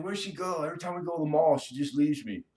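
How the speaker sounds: hammed-up lost boyfriend voice; imitating a bored guy. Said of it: "He's like".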